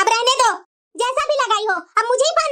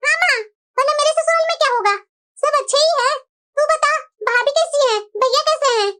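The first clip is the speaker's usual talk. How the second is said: a hint of a cheerful daughter; married daughter; 3 semitones higher than usual.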